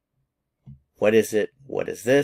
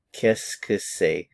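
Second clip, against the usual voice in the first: slow French demo; slower than usual. Shown as a demonstration. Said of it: "look at it again".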